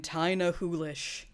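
slow Scottish drawl on "Tina Hoolish", every syllable of "Tina Hoolish" stretched long; Scottish accent imitation. Host mimics a character's Scottish line, slow stretched accent. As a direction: draw out "Tina Hoolish" in a thick Scottish accent, consonants dropped. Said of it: "The accent where every syllable is just elongated".

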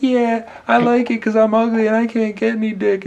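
high mocking woman voice; squeaky put-on female voice. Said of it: "Your woman voice is disgusting".

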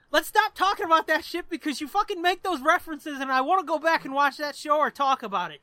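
hammed-up irritation; mock angry. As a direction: work up a pretend temper. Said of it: "Get a little more angry".

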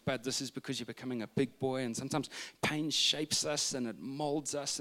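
soft, soothing dad murmur; talking into ear. Retold or imitated. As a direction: comfort a small child at bedtime. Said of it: "I'm talking into his ear".

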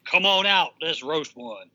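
low, loud rancher voice; deep Bunker impression. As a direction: play the rancher deep and proud. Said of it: "can't do the holla in a deep voice".

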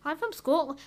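lightly put-on Scottish accent; mock Scottish podcaster introduction. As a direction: slip into a playful Scottish accent. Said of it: "I did a Scottish accent".

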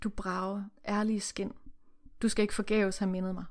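muttered to himself. Acted. Master alone after Tom leaves, quiet mutter. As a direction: say it to yourself, not to Tom. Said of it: "denne mumlede ved sig selv".

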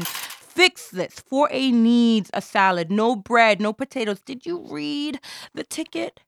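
snapping at kitchen. Acted.

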